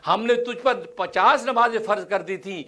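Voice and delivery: a hint of a solemn, commanding divine voice; voice of God. A touch of God's solemn voice addressing His beloved. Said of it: "اللہ کی آواز".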